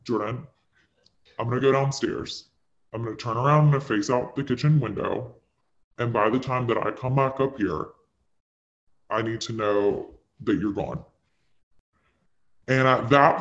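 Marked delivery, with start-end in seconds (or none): 0.0-11.0 very calm. Retold or imitated. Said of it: "this is literally the tone of my voice".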